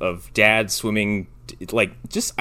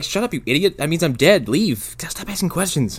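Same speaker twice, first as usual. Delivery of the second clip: dismissive; 7 semitones higher than usual. Retold or imitated. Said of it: "He says it like".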